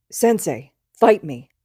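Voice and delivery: loud, punchy dare; tipsy challenge. Acted. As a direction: call him out like a tipsy brawler. Drunk student challenging teacher.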